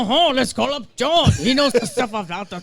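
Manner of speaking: a slow, hammed-up French accent; mock French accent. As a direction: drawl it out in fake French. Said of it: "That's my Paris talk".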